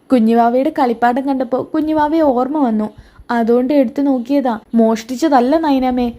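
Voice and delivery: lightly voiced small child; a hint of a child's voice; little child pleading innocence. Child denies stealing to aunt.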